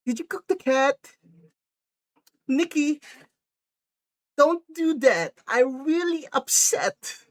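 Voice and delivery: very high, plaintive whine; mock upset boyfriend. Boyfriend asks about the cat, mock upset. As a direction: act wounded, stretching the last words.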